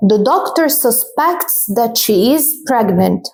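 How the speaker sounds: the doctor susPECTs, slow and clear; slow teacher reading; slow model sentence. Shown as a demonstration. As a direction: dictate it slowly. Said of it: "For example".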